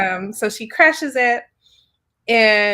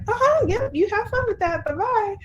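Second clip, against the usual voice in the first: much higher, sing-song brush-off; mocking farewell; 11 semitones higher than usual. Lich dismissing Fallon about the other temples. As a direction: wave him off with fake sweetness. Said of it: "And she's like".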